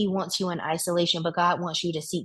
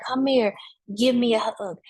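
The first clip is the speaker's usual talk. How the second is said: inviting lady; 5 semitones higher, 4 dB louder than usual. Retold or imitated. Lady offers hug warmly.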